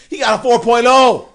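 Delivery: high, loud hype-man shout; hyped announcement. Real, not acted. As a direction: announce it like a game show win. Host hyping DJ's 4.0 GPA.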